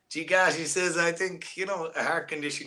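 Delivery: weak attempt at an American accent; bad American accent. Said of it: "my American accent is really bad".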